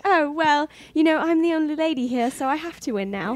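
put-on British accent, pitched a little high. Girl at a sword fight retold, put-on British accent. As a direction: play the British lady. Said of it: "talking in my British accent".

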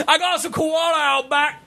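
high, laughing Aussie caricature; mock Australian accent. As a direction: put on a silly Australian voice, amused.

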